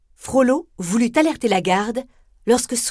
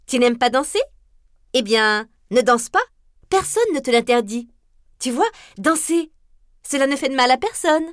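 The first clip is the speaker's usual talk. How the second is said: playful teasing; 4 semitones higher than usual. Acted. Esmeralda teases Frollo dancing.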